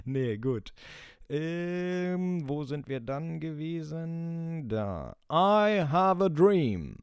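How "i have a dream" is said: quoting King. Pretend. Host quotes famous speech.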